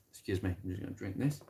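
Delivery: slurping tea while talking. Real, not acted. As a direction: sip and slurp between words. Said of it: "stop slurping my tea".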